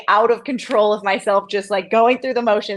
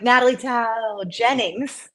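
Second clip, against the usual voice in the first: slow formal intro; 3 semitones higher, slower than usual. Retold or imitated. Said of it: "So I'm always like".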